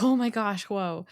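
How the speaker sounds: a hammed-up spooked horse; startled horse. Horse spooked by flipped hair, mock startled yelp. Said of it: "she was like".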